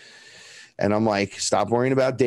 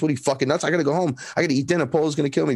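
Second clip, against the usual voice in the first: higher-pitched, incredulous retort; mock frantic objection; acted panicked protest; 5 semitones higher, much faster than usual. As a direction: protest as if urgently needed at home. Acted protest at lost two months.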